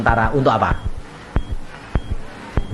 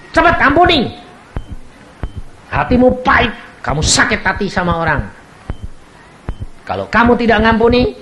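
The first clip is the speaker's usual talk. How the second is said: retold prophetic word; 7 semitones higher than usual. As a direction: press her gently to forgive. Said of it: "Tuhan ngomong sama saya".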